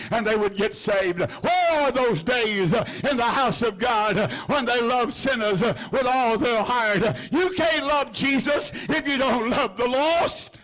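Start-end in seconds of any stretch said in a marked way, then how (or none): 1.2-10.6 impassioned outcry. Real, not acted. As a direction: cry out for the lost. Preacher's impassioned lament.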